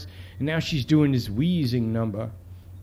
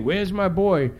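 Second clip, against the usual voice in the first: higher-pitched, lightly hammed-up mother; wheezing mother; 6 semitones higher, slower than usual. Mother bursting into the precinct for her son, hammed-up distress. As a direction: wail it theatrically, slightly overdone. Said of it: "she's wheezing and doing that old Fred Sanford".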